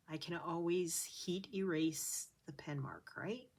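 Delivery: soft whispered musing. Real, not acted. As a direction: whisper to yourself. Quiet aside while stitching.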